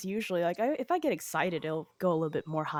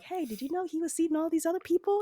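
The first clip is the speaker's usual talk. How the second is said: mock-casual, much higher pitch; retold phone confrontation; 9 semitones higher than usual. Woman recounting calling all the other girls, mock-casual retelling. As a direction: voice it high, like quoting your own call. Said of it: "be like".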